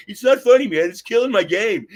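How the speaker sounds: loud, high indignant friend; high-pitched retold complaint; mock protest. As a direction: yelp it out like he's fed up.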